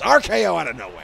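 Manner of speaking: loud announcer call. Retold or imitated. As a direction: boom it out like a ringside caller.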